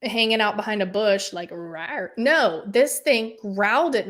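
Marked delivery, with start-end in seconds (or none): 1.5-2.1 quiet mock rawr; half-hearted little lion growl; softly spoken rawr; imitated growl. Imitates a lion behind bush.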